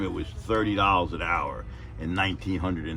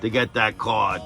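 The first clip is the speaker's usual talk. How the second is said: mock earnest plea; 6 semitones higher, 5 dB louder than usual. Pleading with the boss.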